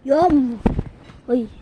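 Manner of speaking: playful loud yum. Pretend. Playful exclaim, getting louder.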